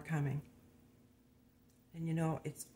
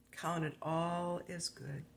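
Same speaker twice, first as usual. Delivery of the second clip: "Count it all as good" drawn out slowly, each word weighed; slow emphatic repeat; much slower than usual. Shown as a demonstration.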